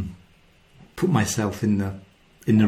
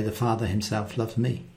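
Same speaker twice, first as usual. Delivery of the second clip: "The Father himself loves me." said quietly and softly; softer, quiet reading; 7 dB quieter than usual. Shown as a demonstration. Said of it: "You can even change it and say".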